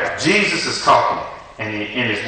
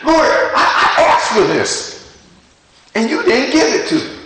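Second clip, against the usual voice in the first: whiny complaint; 10 semitones higher than usual. Retold or imitated. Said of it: "I'd be like".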